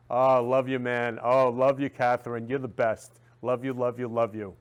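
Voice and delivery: loud, gushing affection; shower them with loud love. Retold or imitated. Gives roses to people, loudly gushing love.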